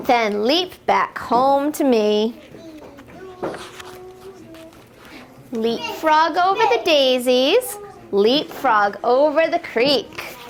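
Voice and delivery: gentle sing-song picture-book reading; lilting refrain for little listeners; reading to children. Acted. Teacher reading a frog book to toddlers, sing-song.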